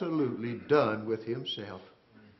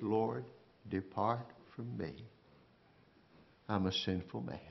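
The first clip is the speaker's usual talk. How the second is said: humbled plea; 5 semitones lower, 11 dB quieter than usual. Acted. Peter's humbled confession.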